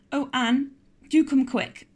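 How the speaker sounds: put-on frightened girl imploring help; nervous pleading. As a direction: beg her to hurry, frightened. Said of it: "implored Diana nervously".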